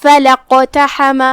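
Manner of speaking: فلاقتحم read slowly, straight from فلا to the qaf; joined reading. Shown as a demonstration. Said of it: "سیدھا حرف القاف پڑھیں گے". (ہمزہ وصل چھوڑ کر سیدھا قاف)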